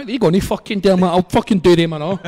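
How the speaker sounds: worked-up, re-enacted threat; retold fighting talk. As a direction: boast you'll take them all on. Retold bravado about security guards.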